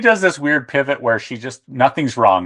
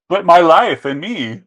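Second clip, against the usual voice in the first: high, louder, slow mock whine; mock self-pity; 6 semitones higher, 5 dB louder, slower than usual. Host mocking Whitney at the dinner, as a slow, whiny lament. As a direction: stretch it out as a whiny, self-pitying complaint.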